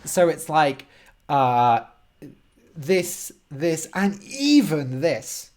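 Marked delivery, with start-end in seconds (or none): 2.8-5.5 slow list peaking on "even"; stress on EVEN. Shown as a demonstration. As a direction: list slowly, then lift "even" as the surprise. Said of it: "like a really surprising extra thing".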